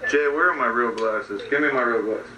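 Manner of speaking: bossy, barking orders; diva. Real, not acted. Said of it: "I'm kinda being an overall diva here".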